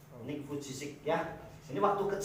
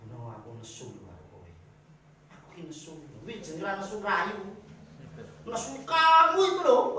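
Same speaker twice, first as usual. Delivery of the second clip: mock angry wife; 5 dB louder than usual. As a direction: tease out a spouse's telling-off, then blow up. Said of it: "Berantem, lah ngomongnya kayak gini". (pura-pura istri marah, dari gerutu pelan lalu teriak)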